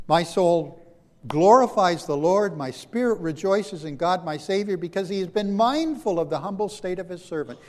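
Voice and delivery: loud, slowed, rising praise of Mary; joyful proclamation. Acted. Preacher voicing Mary's song to God, loud and joyful. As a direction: lift the words like a song of praise. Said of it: "She bursts into song and says".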